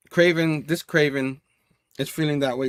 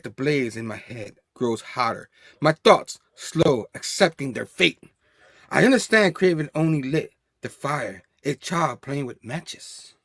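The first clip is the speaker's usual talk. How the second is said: brooding villain monologue; 3 semitones lower than usual. Acted. Fan reading Kraven's thoughts in a low brooding voice. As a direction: read it like a menacing inner voice.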